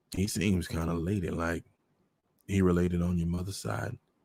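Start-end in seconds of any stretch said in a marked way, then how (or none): none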